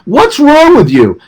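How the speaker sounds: slow, high mock yell at strangers; imitating a yell. Imagining yelling at masked people on the street, a slow high mock yell. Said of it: "yelling at people".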